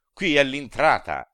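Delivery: high, loud barked command; shouted order. A narrator's reading. The boatman ordering them out, high loud shout. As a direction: bellow them out of the boat. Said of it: "gridò".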